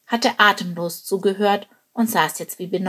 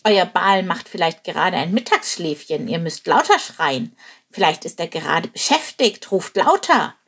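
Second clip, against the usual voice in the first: mocking. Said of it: "sie zu verspotten".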